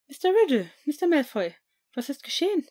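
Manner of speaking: a nurse hurrying over in alarm; school nurse. A narrator's reading. (Krankenschwester, höher und lauter, besorgt)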